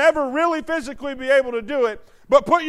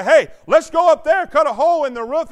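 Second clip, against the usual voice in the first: louder, eager suggestion; eager friends; 3 semitones higher, 6 dB louder than usual. Acted. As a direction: pitch the idea with excitement. Friends plan roof entry.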